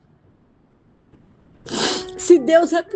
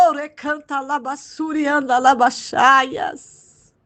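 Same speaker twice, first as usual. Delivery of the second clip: speaking in tongues; much slower than usual. Real, not acted. Hablar en lenguas en el culto.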